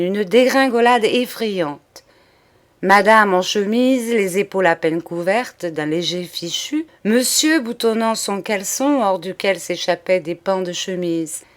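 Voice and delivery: plain reading voice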